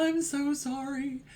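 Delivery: lightly mocking insincere sorry; mock crocodile tears. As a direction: toss off a hollow apology. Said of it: "crocodile tears".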